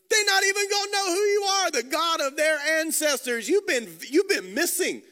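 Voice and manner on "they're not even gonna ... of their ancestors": louder, higher urgent protest; raised, pleading Moses. Acted. Preacher voicing Moses' doubt to the congregation, louder and higher.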